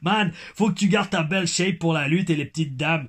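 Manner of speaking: mock Québécois accent. Reading a fan's teasing advice to the wrestler, Québécois accent. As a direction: read it out with a put-on Québécois twang. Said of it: "Mon accent québécois".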